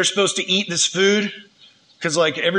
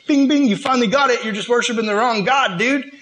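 higher, teasing "you got it" delivery; mock congratulation; 4 semitones higher than usual. Teasing the wise men who finally got it, mock congratulation. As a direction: ring it in like a correct answer.

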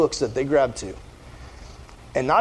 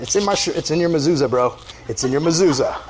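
laughing; 2 semitones lower than usual. Pretend. Joking reply to the man.

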